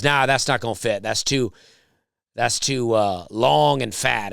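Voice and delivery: mildly imitated rude dismissal; a light mock of a curt brush-off. Imitating the gate agent's rude brush-off, only a hint of attitude. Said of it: "she said in a real rude tone".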